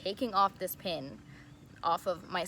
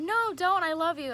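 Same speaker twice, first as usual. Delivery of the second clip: much higher, louder mock squeal of no, don't; imitating a singer's sweet plea; 11 semitones higher, 7 dB louder than usual. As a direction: play the star begging her to stay, squeaky and gushing. A singer retold, pleading sweetly.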